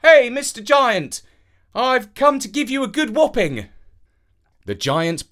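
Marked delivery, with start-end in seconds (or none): 0.0-3.7 calling up loudly. A narrator's reading. Boy challenging the giant from below, loud. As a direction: shout up at a giant, full of bravado. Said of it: "Avenant called up to him".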